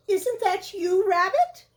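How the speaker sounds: questioning bear voice. Acted. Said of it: "called Pooh".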